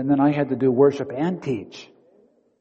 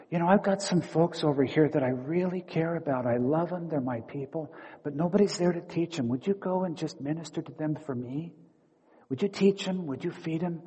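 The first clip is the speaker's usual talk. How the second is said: tender voice of Jesus; 3 semitones higher, 6 dB quieter than usual. Pretend. Jesus speaks tenderly to the pastor.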